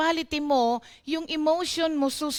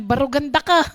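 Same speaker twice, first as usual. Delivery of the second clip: louder, a jokey Kapampangan scolding; louder Kapampangan quote; 7 dB louder, faster than usual. Retold or imitated. Quoting a friend's jab at the pastor, louder. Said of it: "sabi niya sa Kapampangan".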